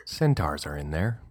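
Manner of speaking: eerie hushed listing; spooky voice. Pretend. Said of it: "This is what my brain sounds like".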